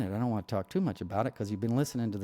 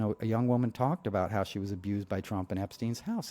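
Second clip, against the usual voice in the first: ordinary delivery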